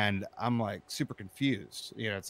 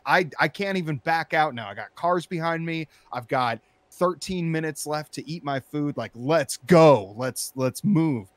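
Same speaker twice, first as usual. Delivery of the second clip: angry shouting; 5 semitones higher, 7 dB louder than usual. Retold or imitated. Trapped in line, yelling at the driver ahead, angry. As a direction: stretch it out, seething. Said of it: "I'm like".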